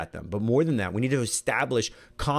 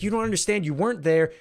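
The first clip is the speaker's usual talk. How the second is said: higher, defensive retort; frustrated snap back; 9 semitones higher, 3 dB louder than usual. Retold or imitated. Wife to husband who keeps solving, frustrated. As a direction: push back, hurt and annoyed.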